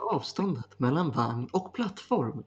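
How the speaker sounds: subway announcer voice. Retold or imitated.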